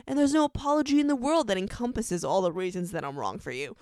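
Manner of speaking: quick, emphatic recited love speech; lightly acted impassioned confession; Damon. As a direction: race through a TV hero's monologue from memory. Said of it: "he ends it off like".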